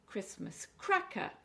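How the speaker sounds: "cracker" with the stress on cra; slow "Christmas cracker", punching the cra. Shown as a demonstration. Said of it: "we're stressing the cra".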